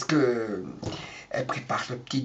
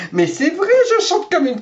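laughing; 10 semitones higher than usual. Real, not acted. Laughing admits singing badly.

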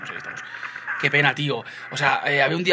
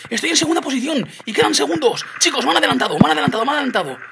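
high, loud cry of dismay; alarmed shouting; 11 semitones higher, 9 dB louder than usual. Real, not acted. Gamer shouting to viewers he's been overtaken, alarmed. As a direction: shout it in a real panic. Shock at being overtaken live.

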